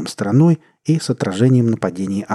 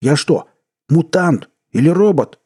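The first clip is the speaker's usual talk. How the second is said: louder, much higher frantic yell; 7 semitones higher, 5 dB louder than usual. A narrator's reading. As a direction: scream it in panic at both. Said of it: "заорал парень". (громкий панический крик)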